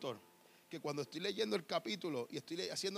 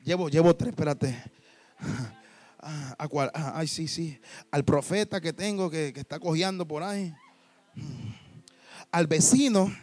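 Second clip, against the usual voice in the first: loud, lower, frantic counting; hysterical; 5 semitones lower, 10 dB louder than usual. Acted. The Samaritan woman panicking over which man to name, hysterical. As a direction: panic as she tallies her lovers. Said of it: "se vuelve histérica".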